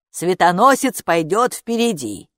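mildly grand proclamation; proclaiming. A narrator's reading. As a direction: declare it with ceremony. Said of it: "провозгласила привратница".

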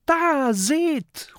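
very high, urgent cry; high-pitched alarmed shout; alarmed call. A narrator's reading. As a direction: call out a sudden warning. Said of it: "ruft Mathilda".

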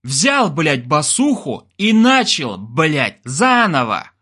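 high, drawn-out barked order; angry command. A narrator's reading. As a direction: order him to start over, hammering the words. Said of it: "рявкал Олег".

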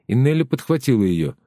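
usual speaking voice

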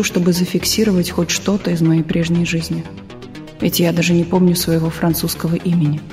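ordinary delivery

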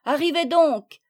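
second call, falling at the end. A narrator's reading. Children calling their friends a second time, loud. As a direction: call again, landing firmly on donc. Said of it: "leur crièrent-ils".

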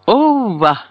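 scornful retort; defiant scoff. A narrator's reading. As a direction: brush it off with scorn. Defiant exclamation.

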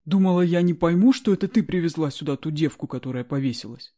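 loud, heated accusation; angry accusing. Acted. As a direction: hurl the accusation at her. Guard accuses her, chair in hand.

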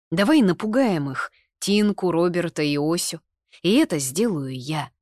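excited scheming; eager plan. A narrator's reading. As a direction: pitch the plan with gusto.

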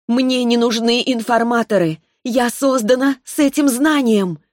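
put-on a child spirit passing sentence, unhurried; sweet young voice. Spirit answers coldly.

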